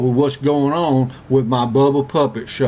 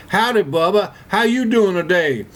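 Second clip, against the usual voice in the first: high pitched hollered greeting over a mower motor; mock scream; 6 semitones higher than usual. Forrest hollering to Bubba over the lawnmower, high mock scream. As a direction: yell it out high like a puppet show over an engine. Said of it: "and I was screaming".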